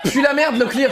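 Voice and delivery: giggling through the line; laughing. Real, not acted. Streamer laughing while correcting the quote. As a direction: laugh as you repeat it.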